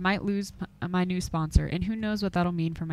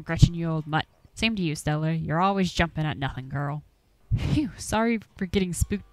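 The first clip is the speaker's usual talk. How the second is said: lightly voiced old country hunter, grumbling; a hint of a gruff Appalachian old-timer warning folks off; 5 dB louder than usual. Game master voicing Duke, shooing the players from his woods, gruffly.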